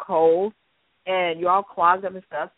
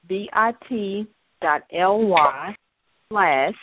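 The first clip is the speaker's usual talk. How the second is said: slow spelling out; much slower than usual. Shown as a demonstration. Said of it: "So that's Memorial Day Meltdown Challenge".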